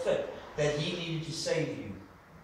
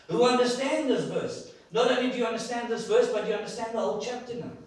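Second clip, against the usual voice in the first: preaching emphasis; 6 semitones higher, 5 dB louder than usual. Real, not acted. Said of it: "preaching emphasis".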